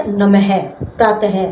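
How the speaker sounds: नमः and प्रातः ending in an audible breath of "ha"; visarga as ha. Shown as a demonstration. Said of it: "इसका उच्चारण है की बात ही होता है". (नमः, प्रातः के अंत में ह की ध्वनि)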